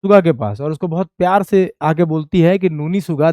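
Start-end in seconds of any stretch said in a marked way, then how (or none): 2.7-3.3 soft, coaxing call of a pet name; loving coax. Retold or imitated. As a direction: coax her sweetly by name. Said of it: "देखो बहुत प्यार से बोल रही हैं कि". (प्यार से पुचकारती हुई आवाज़)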